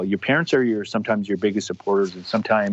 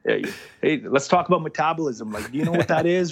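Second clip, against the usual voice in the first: lecturing, higher pitched mock reply; sarcastic retort; 6 semitones higher than usual. Son answering his teasing parents, sarcastic and lecturing. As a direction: talk down to them about metabolism.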